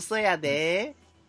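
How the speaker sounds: lazy Aoi drawl. Retold or imitated. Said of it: "そう、ゆるい感じ".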